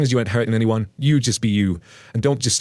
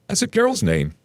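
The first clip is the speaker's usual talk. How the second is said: mock indignant mom; 11 semitones higher than usual. Entitled mom voiced in story.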